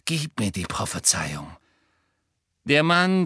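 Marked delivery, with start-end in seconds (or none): 0.0-1.5 growling. A narrator's reading. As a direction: growl it low in his ear. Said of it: "knurrte eine Stimme".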